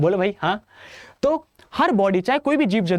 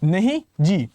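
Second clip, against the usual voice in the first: mock polite refusal; much slower than usual. Shown as a demonstration. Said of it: "एबनेगेशन".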